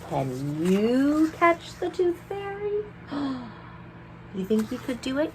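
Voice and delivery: high, sing-song dare; playful challenge. Real, not acted. Teacher daring children to catch the fairy, playful.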